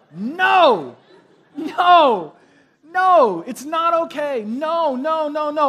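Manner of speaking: put-on very slow, loud, drawn-out two-year-old voice. Speaker shows listeners how to refuse their credit card, like a two-year-old. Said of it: "say it like a two-year-old".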